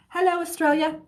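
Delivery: playful attempt at an Australian greeting; bad Australian accent. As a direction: have a go at an Australian accent while laughing at yourself. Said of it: "I don't have a great Australian accent".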